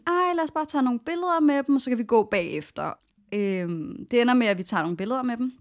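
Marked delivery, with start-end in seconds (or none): 0.1-2.9 high, pleading friend, lightly played; mock the carefree friend begging for photos; friend's eager plea, higher pitched; imitating her friend. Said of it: "hun var bare sådan".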